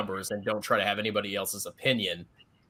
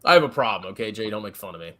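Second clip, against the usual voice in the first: chewing tobacco; 4 semitones lower, faster than usual. Real, not acted. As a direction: mouth full of tobacco. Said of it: "Are you putting in a whole fucking can?".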